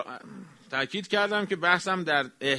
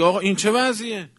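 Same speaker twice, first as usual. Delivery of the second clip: indignant protest. Shown as a demonstration. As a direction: demand an answer, indignant. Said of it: "اعتراض کنی به قتل".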